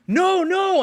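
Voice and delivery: high polite insisting; polite refusal. Retold or imitated.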